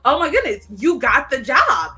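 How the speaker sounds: acted excitement. Friend tells her she got the job, excited. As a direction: gush it, stretching out the words.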